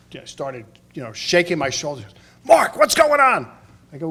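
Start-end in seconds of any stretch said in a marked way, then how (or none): 2.4-3.5 mock shout of the dad, slower; hammed-up dad yelling over a party; dad's call. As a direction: boom it out like his father calling his son. Dad shaking him at wedding.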